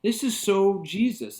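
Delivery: a preacher lit up by the passage; excited realization. Real, not acted. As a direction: say it with growing delight. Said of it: "I'm like".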